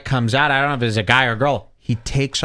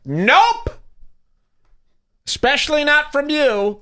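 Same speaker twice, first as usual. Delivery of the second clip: higher, snappy brush-off; mock curt refusal; 11 semitones higher than usual. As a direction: toss back a cheeky no. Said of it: "And they're like".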